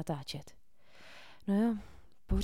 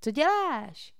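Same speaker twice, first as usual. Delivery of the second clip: hiss; 8 semitones higher, 6 dB louder, slower than usual. A narrator's reading. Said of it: "sykl Cole".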